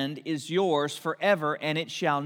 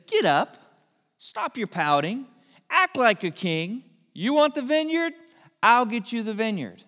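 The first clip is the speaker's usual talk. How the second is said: louder, rising scold as a bossy wife; scolding command; 5 semitones higher, 4 dB louder than usual. Retold or imitated. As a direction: snap him out of his sulking, loud and sharp. Jezebel scolding sulking Ahab.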